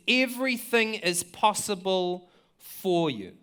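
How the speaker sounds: drawn-out, earnest, set apart from the plain voice; slow quoted cry to God. Retold or imitated. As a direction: voice Jesus crying it out slowly to the Father. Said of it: "he cried out".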